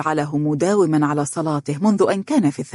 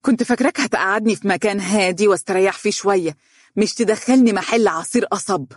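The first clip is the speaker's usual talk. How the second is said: annoyed; 4 semitones higher than usual. Acted. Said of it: "ثم تابعت بحنق".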